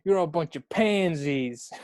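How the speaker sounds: slow, drawn-out American rock-star insult. Pretend. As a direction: drag it out as a mock American rock star. American rock-star impression continues.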